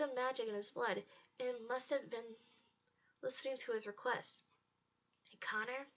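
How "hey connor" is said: softly whispered call for attention; hushed, furtive narrated whisper. A narrator's reading. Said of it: "Bree whispered".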